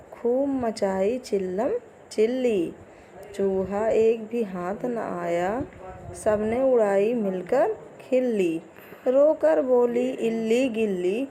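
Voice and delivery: put-on slow sing-song poem reading for kids; poem recitation. Teacher reciting a poem to young pupils, sing-song. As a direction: recite the rhyme slowly for children.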